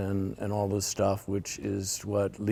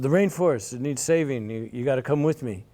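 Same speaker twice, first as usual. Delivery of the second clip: eager friend; 4 semitones higher, faster than usual. Retold or imitated. Friend recruiting him for the rainforest, eager and pushy. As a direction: sell it like the friend begging you along. Friend voiced urging to help.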